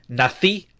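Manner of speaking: "nací" with the final í stressed. Shown as a demonstration. Teacher models born in Spanish, stress on the end of "nací". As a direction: lean on the end: na-CÍ. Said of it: "with the accent on the I".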